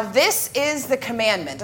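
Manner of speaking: firm emphasis on "is" in the commandment; stress on "is". Shown as a demonstration. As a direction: lean on the word "is". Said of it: "there is emphasis, um, on the word is".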